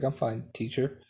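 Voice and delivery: flat, emotionless monotone. Acted. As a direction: say it with no feeling at all. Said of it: "in a monotone voice".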